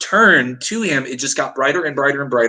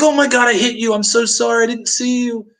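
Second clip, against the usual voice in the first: a mildly imitated panicking stranger; panicked driver; 10 semitones higher than usual. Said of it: "he is losing his mind".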